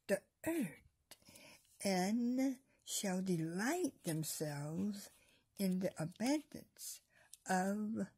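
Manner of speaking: slow, measured Bible reading with long pauses; scripture reading. Acted. Preacher reading the Psalm to viewers, slow and solemn. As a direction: read the verse slowly, weighing each word. Reads Psalm verse aloud.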